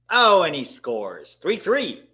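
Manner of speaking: loud, slow goal call rising high; excited call. Real, not acted.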